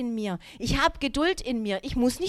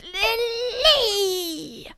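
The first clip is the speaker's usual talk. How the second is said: put-on high, loud call of a sick child; 9 semitones higher, 6 dB louder than usual. Sick son calling his mother in the night, loud high call. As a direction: cry out her name from bed.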